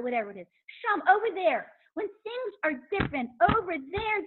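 hammed-up wife blaming her husband; complaining wife. Wife pushing change off to over there, mock complaining. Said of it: "we say".

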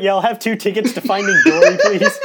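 laughing order. Pretend. Mock customer order.

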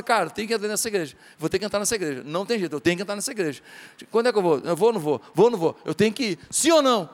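voz mais baixa e mais suave, leve imitação; homem indeciso imitado. Retold or imitated. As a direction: imita de leve o vizinho curioso. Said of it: "fala assim". (imitação leve de um vizinho indeciso)

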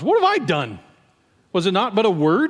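indignant retort. Acted. David answers his scolding older brother, indignant. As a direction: protest it as the accused kid brother.

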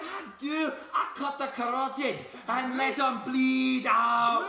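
put-on Irish accent. Irish hockey son boasts.

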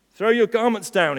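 high, loud, cross command. A narrator's reading. Offended colt ordering the market crowd, crossly. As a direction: order them about crossly. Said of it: "he said crossly".

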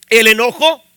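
loud, emphatic scripture reading; emphatic proclamation. Real, not acted. Preacher reading the verse to the congregation, emphatic and loud.

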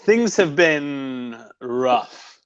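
slow mock-solemn news; mock grave. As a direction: deliver it like bad news at a funeral. Solemn bad news to a fan.

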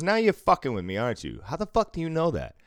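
high, incredulous mock accusation; imitated alarmed disbelief. Imitating customer who thinks he's being messed with, high incredulous voice. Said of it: "He panicking for a minute".

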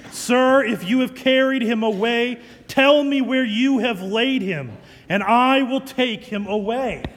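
loud, urgent plea; loud pleading. Acted. Mary pleading with the supposed gardener, loud and urgent. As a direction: beg him to tell you, loud.

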